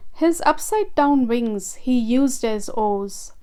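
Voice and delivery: put-on lively read-aloud for children; storybook narration. A narrator's reading. Children's author reads her turtle tale aloud, lively storytelling. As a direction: tell it like a bedtime storybook.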